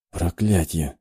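low, soft curse under the breath; muttered whisper. A narrator's reading. Woman curses privately on being spotted, half-whispered. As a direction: curse quietly into your fist. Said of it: "прошептала в кулак девушка".

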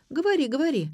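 high, loud eager urging; encouraging. A narrator's reading. Daughter spurring her father's memory, encouragingly. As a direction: egg him on to keep talking. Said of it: "подбодрила его дочь".

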